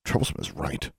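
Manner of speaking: low grumble under the breath; hushed aside meant to be half heard; muttered. A narrator's reading. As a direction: mutter it softly, barely voiced. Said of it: "before Larry muttered".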